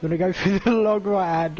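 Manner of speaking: breathless, gasping between words; talking while short of breath. Real, not acted. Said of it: "I'm running out of breath here".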